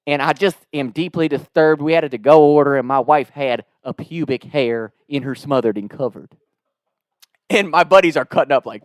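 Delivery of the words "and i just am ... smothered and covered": deadpan Southern complaint; Southern twang. Retold or imitated. Prank caller complains about his wife's food, Southern twang. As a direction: play the deeply disturbed Southern customer. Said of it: "this Southern twang".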